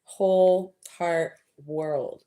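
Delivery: loud, slow and delighted; excited. Real, not acted. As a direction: draw it out with delight. Exclaiming at hearts.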